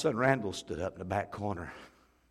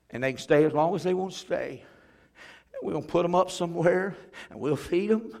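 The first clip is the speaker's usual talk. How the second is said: impassioned plea; 7 semitones higher, 4 dB louder than usual. Retold or imitated. Pastor pleading with his congregation.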